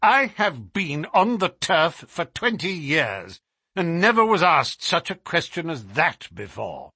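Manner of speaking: offended horse owner, measured outrage; angry Colonel. Acted. Colonel answers Holmes's question about his horse, angry. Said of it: "The Colonel was very angry".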